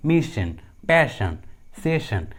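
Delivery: mission, पैशन, सेशन slowly, each with SH; double S as SH. Shown as a demonstration. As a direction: model पैशन and सेशन with a clear SH. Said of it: "एस का उच्चारण श होता है". (पैशन, सेशन में SS को "श" बोलते हुए)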